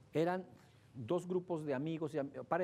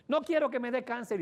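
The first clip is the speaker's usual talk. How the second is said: high, loud mock cry of panic; excited cry; 9 semitones higher, 7 dB louder than usual. Wife yelling at her husband after soaking him, high and loud. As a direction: shout it like she's fleeing. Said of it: "y dice".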